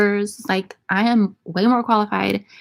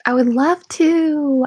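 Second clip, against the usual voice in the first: first take, raised pitch; 6 semitones higher, slower than usual. Pretend. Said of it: "will you become my sleep paralysis demon".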